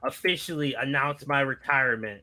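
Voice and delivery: lightly voiced veteran wrestler's promo; a modest attempt at a battle-worn wrestler; Terry Funk. Host attempting a wrestling legend's promo for friends, lightly impersonated. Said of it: "trying to do a Terry Funk impression".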